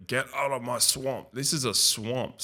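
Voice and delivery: half-hearted ogre voice guarding his swamp; terrible Shrek voice. Retold or imitated. Vlogger spots a swamp and mock-quotes Shrek, lightly voiced. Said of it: "Sorry for the terrible Shrek voice there".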